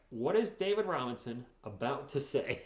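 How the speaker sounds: slowed down word by word; slow, spelled-out question. Real, not acted. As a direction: dictate it slowly for someone to type. Repeats question for chat to copy.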